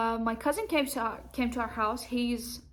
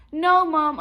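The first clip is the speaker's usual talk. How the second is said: firm no; 4 semitones higher, 8 dB louder than usual. Retold or imitated. Acted refusal to mom.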